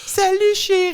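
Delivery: very high, syrupy greeting; sugary sweet. Pretend. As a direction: coo it like an overly nice husband. Mock sweet husband greeting.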